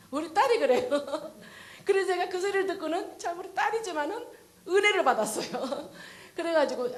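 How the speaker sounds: laughing. Real, not acted. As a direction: laugh through the words with real delight. Laughing at daughter's words. (웃으면서 즐겁게 말하기)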